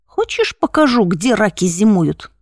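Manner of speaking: первое «Хочешь» резко вверх, дальше с нажимом; надвигайся на него, повторяя угрозу; напирающий задира. Acted. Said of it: "переспросил он, надвигаясь на меня". (с напором и угрозой)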